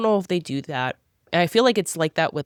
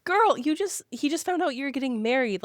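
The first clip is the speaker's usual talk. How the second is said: exasperated scolding; 8 semitones higher, 3 dB quieter than usual. Retold or imitated. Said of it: "It's like".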